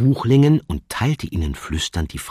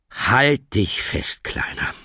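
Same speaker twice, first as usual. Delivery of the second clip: solemn; 4 semitones higher, much slower than usual. Acted. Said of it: "sagte dann feierlich".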